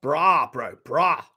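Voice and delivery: mock South African accent; broad South African vowels, played for laughs. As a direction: imitate a South African saying it. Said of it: "South African girl".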